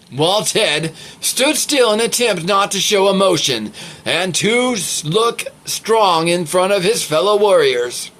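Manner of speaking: measured read-aloud voice; story narration. A narrator's reading. Steady, deliberate storytelling. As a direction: reader telling how the warriors react, story narration.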